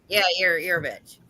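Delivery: low, deadpan imitation of a husband. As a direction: drop the pitch for his blunt verdict. Voices her husband's blunt answer.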